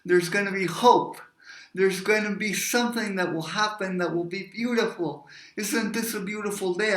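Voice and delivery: bright-eyed hope, mildly hammed up; acted hope. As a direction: play the hopeful optimist, pitch lifted. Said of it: "he's all about hope".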